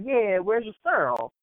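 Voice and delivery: CYRIL for cereal, one slurred drawn-out syllable; dialect cereal. Retold or imitated. Customer asking in a New York bodega, dialect pronunciation. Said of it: "I just call it Cyril".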